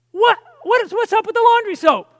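high, loud, incredulous question; acted exasperation. Husband to wife and daughter about spilled soap, exasperated. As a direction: pitch it up in mock-indignant disbelief.

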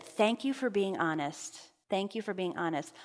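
voicing a tender, unhurried thank-you; sincere thanks. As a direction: thank them quietly and sincerely. Voices Jesus thanking him.

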